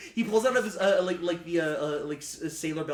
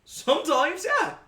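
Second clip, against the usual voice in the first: put-on rough sailor accent, louder with a laugh on bloody hell; laughing sea captain; 3 semitones higher, 7 dB louder than usual. Captain laughing about the shark to the party, rough accent. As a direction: chuckle it off like a hardened sailor.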